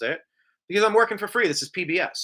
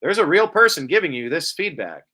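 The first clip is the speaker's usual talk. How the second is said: mock AI voice reading; 5 dB louder than usual. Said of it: "they read it back like".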